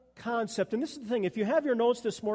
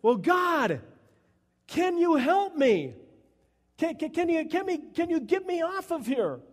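high, urgent begging for rescue; desperate plea; 6 semitones higher, 3 dB louder than usual. Acted. Man hanging from a branch begging God, desperate. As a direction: stammer out an acted plea, pitched high. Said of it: "the man says".

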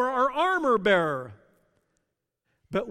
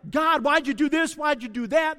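louder, higher, pleading why; raw cry to God; 6 semitones higher, 5 dB louder than usual. Retold or imitated. Preacher voicing a hurting believer, calling out to God. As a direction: shout the question up at God as if wronged.

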